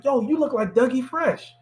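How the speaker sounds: high-pitched imitated shout-out; retold call-out, pitched well up. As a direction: call it out like a teasing host. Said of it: "he calls out to me".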